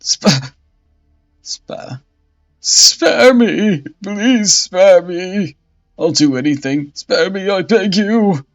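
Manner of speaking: stammer, then loud high shrieks for mercy; desperate begging. Acted. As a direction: beg for your life in terror. Bishop begs for his life.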